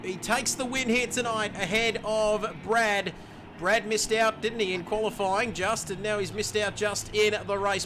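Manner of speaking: lively play-by-play calling each car over the line; live race commentary. Acted. Race caster calling the finishing order for stream viewers, lively play-by-play. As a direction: call the finishers like a race broadcaster.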